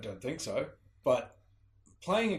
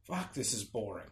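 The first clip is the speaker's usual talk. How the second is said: lower, softer bored aside; bored muttering; 4 semitones lower, 6 dB quieter than usual. Retold or imitated. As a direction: drone it out like you're fed up. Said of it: "sitting there half the time going".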